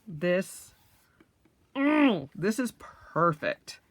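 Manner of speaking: awed whisper. Real, not acted. Admiring the notebook.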